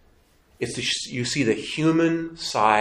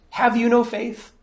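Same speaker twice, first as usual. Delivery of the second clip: a sharp, raised rebuke; rebuking Jesus; 9 semitones higher than usual. Acted. Jesus rebukes his frightened disciples, raised and sharp.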